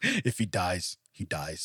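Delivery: low, soft deadpan threat; mock-menacing, hushed and low; movie villain quote. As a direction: drop it low and quiet, like a cold movie villain. Movie line after Stallone impression.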